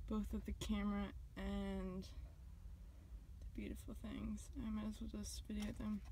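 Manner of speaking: hushed whisper. Real, not acted. Whispering to camera.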